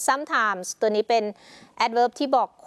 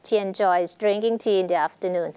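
slow example reading; much slower than usual. Shown as a demonstration. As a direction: read the example slowly and clearly. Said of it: "teacher reads example slowly". (อ่านประโยคตัวอย่างช้าๆ ชัดๆ)

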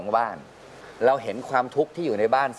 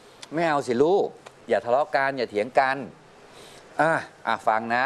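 coaxing parent. Retold or imitated. Father calming quarreling kids.

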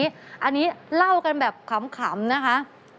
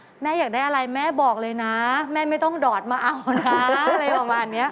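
laughing; 2 semitones lower than usual. Real, not acted. Laughing while quoting self.

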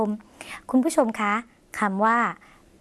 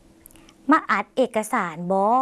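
very slow, rising at the end; slow Lao demo; much slower than usual. Shown as a demonstration. Teacher models the Lao sentence for viewers, very slow and rising. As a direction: spell out each syllable of มาอัดเอกสารบอ slowly, ending on a rise. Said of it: "จำประโยคนี้ได้ไหมคะ".

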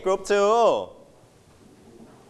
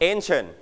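ANCIENT as "AYN-chun", weight on AYN; strong AYN, weak second syllable in ancient; first-syllable stress. Shown as a demonstration. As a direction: stress the opening of ancient, let "chun" go light. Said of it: "เราอ่านออกเสียงหนักที่คำว่า an".

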